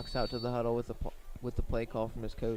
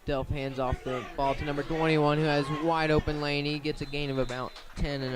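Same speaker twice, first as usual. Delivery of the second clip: louder, lifted call of the open lane; excited call; 3 semitones higher, 6 dB louder than usual. Real, not acted. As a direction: sell the big run to the crowd. Runner finds wide open lane.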